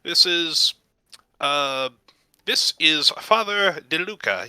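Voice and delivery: high, fussy gnome voice; high-pitched, halting gnome apology; flustered gnome proprietor. Acted. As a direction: fumble a polite introduction as a gnome host. Flustered gnome introduces the priest.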